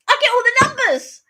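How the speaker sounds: high, loud burst of excitement; excited. Real, not acted. Winning at bingo, telling a friend, high excited squeal. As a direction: squeal it out, thrilled to win.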